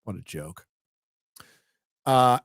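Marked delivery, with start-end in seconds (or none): 0.0-0.7 disgusted groan. Retold or imitated. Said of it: "And now I'm like".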